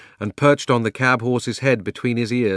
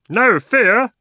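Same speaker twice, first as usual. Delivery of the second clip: much higher, louder bird's squawk; 13 semitones higher, 10 dB louder than usual. Acted. The jackdaw shouting into a sudden silence. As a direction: blurt it out like a perky jackdaw. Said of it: "added in a loud voice".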